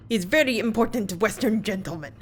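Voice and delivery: lightly done Russian sailor, boastful; a guard bragging in a mock Russian accent; bad Russian accent. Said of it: "my very bad Russian attempt".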